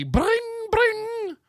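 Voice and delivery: high, ringing mock bell noise; sustained high-pitched "bring" sound effect; imitated bike bell. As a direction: trill it like a bicycle bell.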